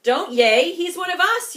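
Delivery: loud, high protest; yelled. Acted. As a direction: stop the cheering. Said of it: "yelled Pip".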